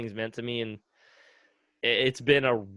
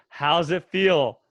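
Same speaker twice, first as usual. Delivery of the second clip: slow, smiling, louder question; 3 semitones higher, 6 dB louder, much slower than usual. Retold or imitated. Retired friend asking about the new retirement, smiling. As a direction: ask it with a big grin, drawing it out. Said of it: "he smiled and, like, goes".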